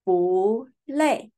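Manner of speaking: 不累 said with 不 rising, second tone; bu lei demo. Shown as a demonstration. Teacher showing the class 不累, 不 rising. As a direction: model 不累 cleanly, 不 going up. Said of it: "we pronounce 不累".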